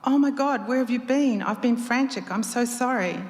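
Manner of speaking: high, worried rush of words; frantic lover on the phone. Acted.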